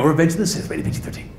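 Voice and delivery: lightly voiced businesslike trailer narrator; all-business trailer voice. Trailer guy reading a rating, all business. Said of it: "he's all business".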